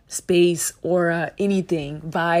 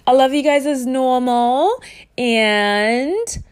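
voice breaking; 5 semitones higher, 6 dB louder than usual. Real, not acted. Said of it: "my voice is breaking like that".

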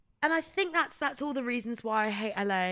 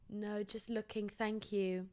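soft curt reply; 7 dB quieter, slower than usual. Retold or imitated. Her own polite reply in skit.

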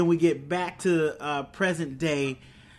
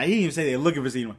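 normal talking voice

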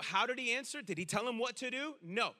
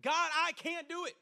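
drawn-out, higher plea to God; crying out; 5 semitones higher, slower than usual. Acted. Preacher voices a desperate believer to God, crying out. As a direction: cry out at the end of yourself, words stretched. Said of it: "this person had a cry".

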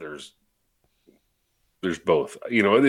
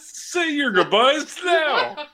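slow ominous drawl; 12 semitones higher, much slower than usual. Pretend. Threatens the beers.

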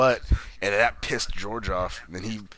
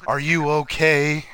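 slow, awkward question, pitched up; stilted, higher, slow mimicry; mock weirdo; 5 semitones higher, slower than usual. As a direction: imitate an oddball, drawing the words out. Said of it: "Like, all weird 'cause he's weird".

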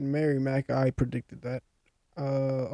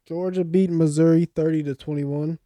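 ordinary talk, nothing marked

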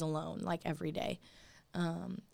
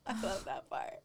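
whispered; 5 dB quieter than usual. Real, not acted. Gushing aside, breathy.

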